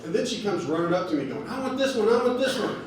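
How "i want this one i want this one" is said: put-on high, eager begging like a kid in a toy store; excited kid. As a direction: plead for the shower head like an overwhelmed child. Wife like kid at Toys R Us.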